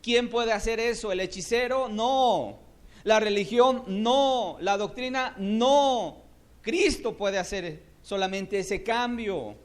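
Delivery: loud, high question and answer; fiery rhetorical climax. Real, not acted. Preacher firing questions at the church, loud. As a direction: hammer each No.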